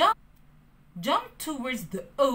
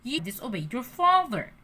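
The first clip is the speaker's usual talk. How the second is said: lightly scolding cricket; 2 semitones higher than usual. Acted. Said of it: "Jiminy the Cricket said".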